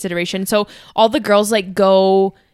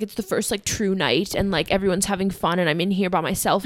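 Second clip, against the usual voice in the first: soft, mildly mopey; retold sadness; 5 dB quieter than usual. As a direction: quietly feel left out, understated. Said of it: "I was, like, so sad".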